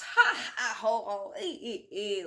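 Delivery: loud giggly ha ha; fireman's laugh. Acted. Fireman tickled on the neck, laughing. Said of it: "laughed the fireman".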